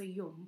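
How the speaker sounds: yum with a soft y sound; yum, said the southern way. Shown as a demonstration. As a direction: say yum with the y glide. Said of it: "they say zum".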